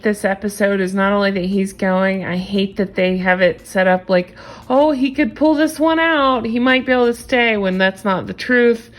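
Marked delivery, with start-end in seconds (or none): 4.7-7.6 mock suspense. Mocking the show's fake suspense.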